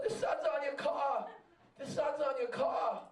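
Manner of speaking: retold yell from the next car; mild mock shout at a stoplight. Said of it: "The guy's yelling".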